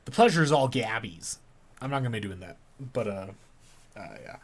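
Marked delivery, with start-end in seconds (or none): 0.1-1.4 a light Cockney lilt on "The pleasure is all Gabby's"; twenties Cockney accent. Shown as a demonstration. Goblin greeting the newcomer in a light Cockney accent. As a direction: try Gabby's line in a mild Cockney swing. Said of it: "twenties Cockney swinger accent".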